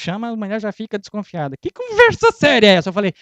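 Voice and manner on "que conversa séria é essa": higher, loud suspicious wife; a hint of a suspicious wife. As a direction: mimic a wary wife. Wife voiced in story.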